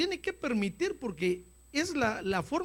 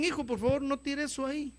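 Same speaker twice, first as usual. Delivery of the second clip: petición paterna suave, algo más aguda; padre pidiendo; 5 semitones higher, 4 dB quieter, faster than usual. Acted. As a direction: pide con paciencia, sin alzar la voz. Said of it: "cuando los padres le hablan a los hijos". (petición amable de padre)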